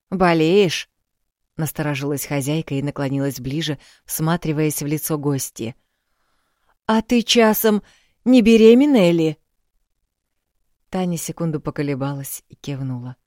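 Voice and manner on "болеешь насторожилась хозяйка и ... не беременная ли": put-on bustle and comfort the girl loudly; lively old village woman, louder. A narrator's reading. Old woman suspicious, loud.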